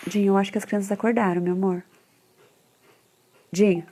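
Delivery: real call to her husband. Real, not acted. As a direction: raise the voice to reach the kitchen. Calling husband from another room.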